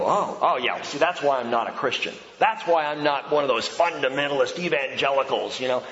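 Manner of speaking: lightly voiced dismissive reader; mildly mocking know-it-all; mock skeptic reader. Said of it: "people are gonna read it and go".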